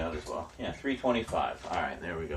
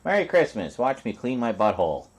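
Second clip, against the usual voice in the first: higher, louder cat voiceover; cat's voice; 4 semitones higher, 4 dB louder than usual. Pretend. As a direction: voice the cat cheerfully. Voicing the cleaning cat.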